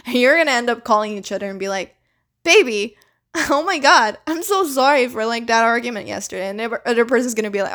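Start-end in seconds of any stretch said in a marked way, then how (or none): 2.4-6.5 gushing apology. Pretend. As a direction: gush out the apology. Apologetic partner making up.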